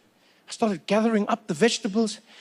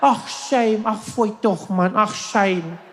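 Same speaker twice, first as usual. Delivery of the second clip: exaggerated fussing commiseration; sympathetic crowd; 3 semitones higher, much slower than usual. South Africans consoling someone who fell, fussing sympathy. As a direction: pour out sympathy, phrase after phrase. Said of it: "They'll all be there like".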